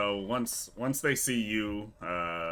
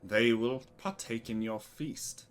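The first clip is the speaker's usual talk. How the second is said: grand, drawn-out welcome with big opening words; smiling cult leader; 3 semitones higher, 6 dB louder, slower than usual. Acted. Cult leader greets his chosen guest, grand smiling welcome. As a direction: proclaim it slowly, savoring the welcome. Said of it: "gets a smile on his face, and he goes".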